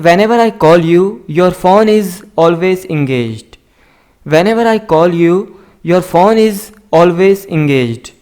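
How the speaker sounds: slow, careful dictation of each word; slow model reading. Shown as a demonstration. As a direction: read it out slowly for learners to copy. Teacher slowly models English sentences. (धीमी, साफ़ पढ़ाने वाली आवाज़)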